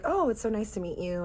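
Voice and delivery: polite greeting. Retold or imitated. Polite greeting to friend's parents.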